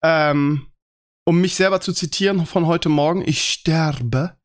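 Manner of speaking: sick voice. Real, not acted. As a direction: voice worn down by a cold. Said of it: "mich hat's erwischt, ich bin, hab die Männergrippe".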